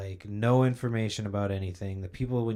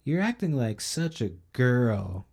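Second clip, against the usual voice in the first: slow, higher and louder jeering actor; mocking training video; 4 semitones higher, 5 dB louder, slower than usual. Mocking the training video bully, slow and loud. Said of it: "this dude's like".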